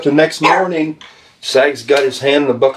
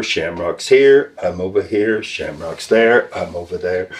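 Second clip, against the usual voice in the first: wary sing-song; 5 semitones lower than usual. Retold or imitated. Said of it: "the boys just went around making sure".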